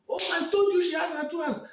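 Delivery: high, loud gleeful cry; happy exclaim. Acted. Crowd member celebrating that Olama had hands all along. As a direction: crow with delight. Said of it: "many were happy".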